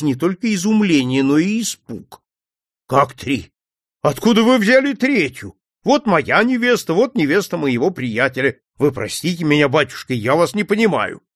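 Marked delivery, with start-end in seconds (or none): 2.9-11.2 baffled officer, astonished; utter astonishment. Acted. Officer baffled by the priest, ringing with amazement. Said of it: "звенело несказанное удивление".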